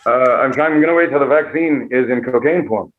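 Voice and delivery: lightly affected half-British actor voice; Johnny Depp. Acted. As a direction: answer as a tipsy, mannered movie star. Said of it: "Johnny, did you get Pfizer or Moderna?".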